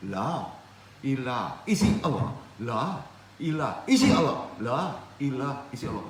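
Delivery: measured dhikr phrases, pushing on the reply; rhythmic demonstration of dhikr, phrase by phrase; demonstrated dhikr practice. Shown as a demonstration. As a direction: show a repeated tarekat recitation. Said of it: "Kan gitu amalan tarekat".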